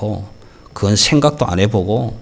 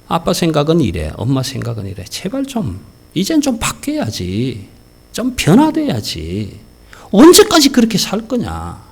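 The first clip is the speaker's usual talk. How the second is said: pleading parent; 5 semitones higher than usual. Acted. Parent pleading with child, acted.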